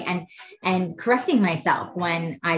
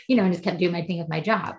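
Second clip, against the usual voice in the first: usual speaking voice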